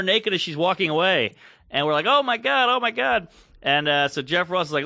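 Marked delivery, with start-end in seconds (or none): 2.1-3.3 high-pitched repeated gushing; retold amazement. Comics looking at the playmate's pictures, giddy amazement. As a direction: marvel out loud, pitched way up.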